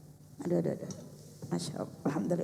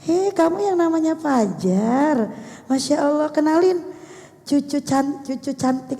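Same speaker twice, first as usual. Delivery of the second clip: kind greeting; 2 semitones higher than usual. Retold or imitated. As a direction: greet the boy gently, with affection. Jadi kita harus dengan kasih sayang.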